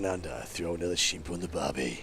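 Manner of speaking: a lightly hammed-up Australian tourist-ad line; awful Australian accent. Inviting viewers down under in a bad mock Australian accent. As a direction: play a cheesy Aussie, half-joking. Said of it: "my awful Australian accent".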